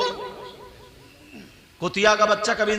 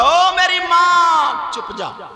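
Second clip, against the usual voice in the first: imitating foolish husband; 9 semitones higher, 6 dB louder, much slower than usual. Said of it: "हाथ जोड़ के बोला".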